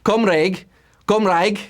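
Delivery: non-native attempt at "Cymraeg", ending first like "rake", then like "rike"; best-effort Welsh pronunciation. Real, not acted. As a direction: say "Cymraeg" carefully as two separate tries. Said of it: "I'm doing my best".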